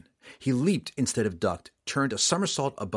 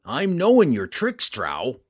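evil grin; 4 semitones higher, 7 dB louder, slower than usual. Acted. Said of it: "with an evil grin".

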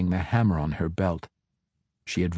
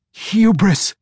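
much higher, louder roar lacking conviction; hollow roar; 11 semitones higher, 6 dB louder than usual. A narrator's reading. Matron mother roars at the girl, unconvincing loud roar. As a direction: roar it but without belief. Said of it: "not much conviction in the roar".

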